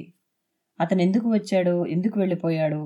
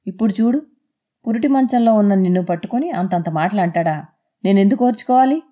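angry outburst. Acted. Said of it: "కోపమంతా ఒక్కసారిగా పెళ్ళుబుకుతున్న గొంతుతో".

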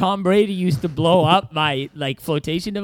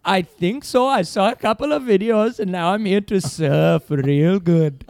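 surfer bro. Pretend. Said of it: "I'll try mine".

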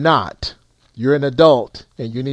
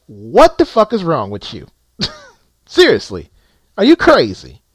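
angry; 5 dB louder than usual. Real, not acted. Ranting at drivers who brag.

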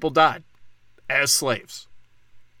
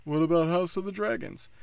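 higher, sing-song mocking question; mock texter; 4 semitones higher than usual. Host mimicking texts he gets while filming, mocking. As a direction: parrot the question in a higher put-on voice. I'm getting six hundred text messages.

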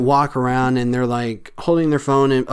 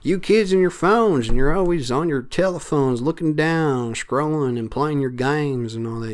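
lightly voiced grumbling old-timer, pitch up at the start; mock a cranky elder scolding kids; a hint of a grumpy old man nagging about phones; 2 semitones higher than usual. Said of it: "don't know why I said it in that accent or that, that voice".

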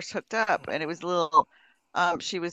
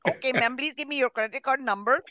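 higher-pitched imitation Filipino agent accent; mock call-center accent; 4 semitones higher than usual. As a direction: put on a foreign agent's accent. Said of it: "I am in my call center".

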